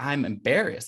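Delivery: ordinary delivery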